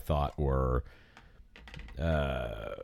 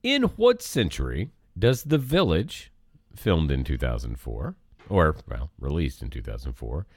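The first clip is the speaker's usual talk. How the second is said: lightly hammed game show host; quiz host. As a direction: read the question like a quizmaster. Reads out trivia question.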